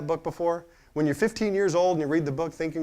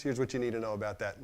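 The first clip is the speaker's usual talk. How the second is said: normal talking voice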